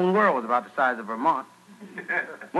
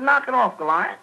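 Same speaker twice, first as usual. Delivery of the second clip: annoyed performer, pitched high; David; 6 semitones higher than usual. Acted. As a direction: protest to the heckler in a higher voice. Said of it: "David said".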